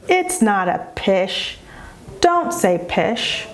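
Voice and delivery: slow, measured correction at normal pitch; understated scolding parent; mild scolding. Shown as a demonstration. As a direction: correct the child word by word, without any sing-song. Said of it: "creating a negative experience through scolding".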